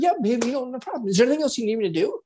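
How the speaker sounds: keen to please; hammed-up eager partner; eager helper.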